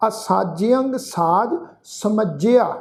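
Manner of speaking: ਅਸਾਜਯੰ said slowly with a nasal ਯੰ; nasal ending. Shown as a demonstration. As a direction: draw out ਅਸਾਜਯੰ and sound its tippi through the nose. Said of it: "ਨਾਸਿਕ ਉਚਾਰਨ ਕਰਾਂਗੇ". (ਅਸਾਜਯੰ ਹੌਲੀ, ਨਾਸਿਕ ਉਚਾਰਨ)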